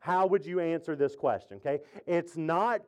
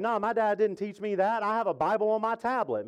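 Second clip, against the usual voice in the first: higher-pitched imitation of a retort; lightly acted indignant comeback; mock protest; 4 semitones higher than usual. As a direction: put someone straight, pitched up. Retelling young Zeke's retort.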